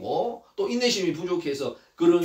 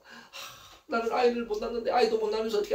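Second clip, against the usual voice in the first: soft, hurried sigh of despair; inward lament; 2 semitones higher, 5 dB quieter than usual. Acted. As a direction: sigh it quietly to yourself, quickly. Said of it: "한나는 속으로 숙-, 숙이면서".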